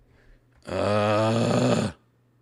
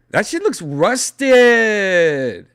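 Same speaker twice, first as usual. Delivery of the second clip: put-on louder, slower Latino accent; exaggerated Latino accent; 8 semitones higher, 7 dB louder, much slower than usual.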